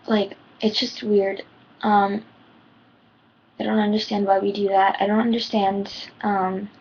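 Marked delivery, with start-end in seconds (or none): 3.6-6.7 trembling, holding back tears; shaky voice. Real, not acted. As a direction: voice shaking with emotion. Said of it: "my voice is shaking".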